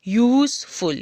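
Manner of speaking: "यूज़फुल" in two beats, यूज़ then फुल; syllable by syllable. Shown as a demonstration. Teacher repeating the example for pupils, "यूज़फुल" split in two. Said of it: "यानी कि दो syllable".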